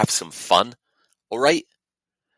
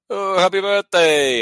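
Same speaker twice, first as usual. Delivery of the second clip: high, loud, drawn-out well-wishing; exaggerated birthday cheer; gushing mock greeting; 11 semitones higher, 7 dB louder, slower than usual. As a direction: gush it in a put-on voice. Imagined warm birthday greeting from brother.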